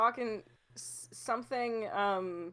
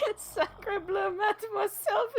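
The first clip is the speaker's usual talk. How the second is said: put-on French accent; 6 semitones higher, slower than usual. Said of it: "what was that?".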